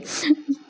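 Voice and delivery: short, high, soft laugh; light giggle. Real, not acted. Vlogger amused by Soni making a mess, light giggle. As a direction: giggle briefly under the talk. Laughs after quoting her own complaint.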